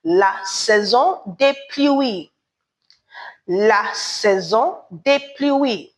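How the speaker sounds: "La saison des pluies" said slowly, leaning on "des"; carefully spaced "La saison des pluies"; teacher modelling "La saison des pluies" slowly; slow French model. Shown as a demonstration. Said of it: "we say".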